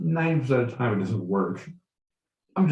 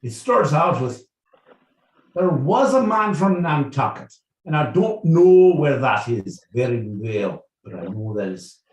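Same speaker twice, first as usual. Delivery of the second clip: put-on Irish accent. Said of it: "with an Irish accent".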